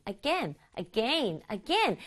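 "again" alternating between rain and pen vowels; alternating pronunciations. Shown as a demonstration. Teacher has pupils try both again variants, alternating vowels. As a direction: say "again" both ways in turn, a-GAIN then a-GEN. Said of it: "두 가지로 발음해보면서".

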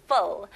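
Full said with a crisp, clear F at the start; clear F sound. Shown as a demonstration. 선생님이 Full의 F를 또렷하게 시범. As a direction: bite the lip for the F in Full. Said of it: "F 발음 명확히 해주시면서".

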